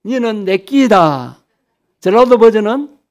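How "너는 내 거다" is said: slow, drawn-out Gyeongsang dialect; 경상도 사투리. Shown as a demonstration. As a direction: say it in a lengthened Gyeongsang accent. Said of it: "경상도 버전으로 하면". (느리게 늘인 경상도 말투)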